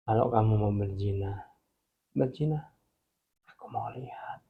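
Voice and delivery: low, soft voice of God, sinking to a whisper; a quiet, menacing warning, lightly acted; scary God. God answering the man who wants to sin, quietly scary. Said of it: "Tuhan yang seram banget ngomong gini".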